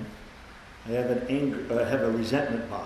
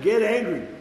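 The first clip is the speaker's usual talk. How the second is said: high, loud, punchy comeback; emphatic retort; 8 semitones higher, 7 dB louder than usual. Retold or imitated. Answering someone who said don't get angry, loud emphatic retort. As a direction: throw it back at them, full force. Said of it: "I said".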